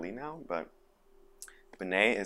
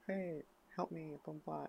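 high, very soft mock plea; small pleading voice; 9 semitones higher, 12 dB quieter than usual. Actor asking producer for help, small pleading voice.

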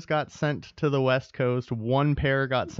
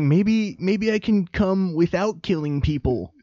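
voicing the killer; 7 semitones higher, slower than usual.

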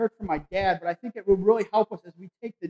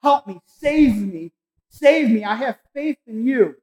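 acted desperate prayer; 5 dB louder, slower than usual. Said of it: "he started praying to God for help".

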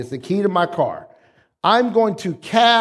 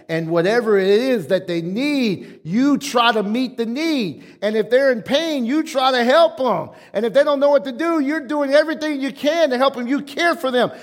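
building higher, quickening into a run; emphatic preaching; 6 semitones higher than usual. Real, not acted. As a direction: pile up the phrases insistently. Preaches, building on parental care.

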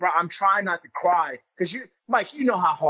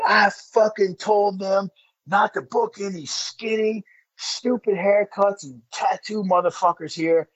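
slow, drawn-out angry tirade, higher pitch; retold screaming rant; 4 semitones higher than usual. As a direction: imitate an office guy tearing someone down, without full shouting. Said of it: "'cause this is an office guy screaming".

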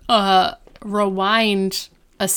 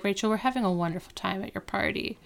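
softer, quick, composed; calm; 8 dB quieter, faster than usual. Retold or imitated. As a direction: breeze in as if nothing happened. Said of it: "comes in calmly".

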